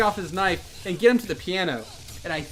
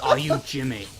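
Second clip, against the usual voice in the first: stranger's voice; 5 semitones lower than usual. Retold or imitated. Correcting how the stranger sounded, low voice. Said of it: "in that kind of voice".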